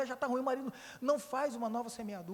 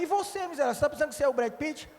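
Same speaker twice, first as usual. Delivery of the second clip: fast, teasing scold, louder and higher; mock rebuke; 4 semitones higher, 4 dB louder, faster than usual. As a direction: needle the husband playfully. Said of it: "Aí eu olhei e falei".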